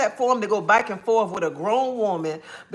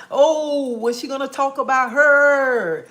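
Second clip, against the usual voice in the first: 1 nosy gossip; 4 semitones higher, 3 dB louder, slower than usual. Retold or imitated. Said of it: "sit in the bushes just to see".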